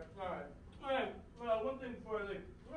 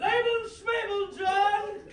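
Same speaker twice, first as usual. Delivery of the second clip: louder, higher huffy outburst; indignant posh shout; 7 semitones higher, 7 dB louder, slower than usual. Acted. Pompous guest scolds the host with an indignant posh shout. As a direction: bellow it like an offended aristocrat.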